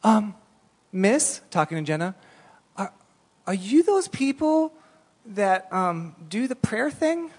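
put-on high, slow, shy little girl voice; a small girl timidly asks the strangers if they pray. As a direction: ask timidly like a small child. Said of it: "And the little girl".

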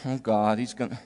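low, hushed and fearful; cowering in fear. Retold or imitated. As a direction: shrink back like a guilty child in church. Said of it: "just cower in fear of Father".

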